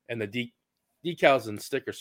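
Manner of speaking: hiccuping mid-sentence; words broken by hiccups. Real, not acted. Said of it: "I got the hiccups".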